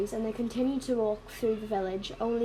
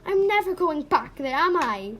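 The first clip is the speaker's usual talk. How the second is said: high, louder despairing question; tearful; 5 semitones higher, 5 dB louder than usual. Acted. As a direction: ask as if starting to cry. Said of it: "Elizabeth started to cry".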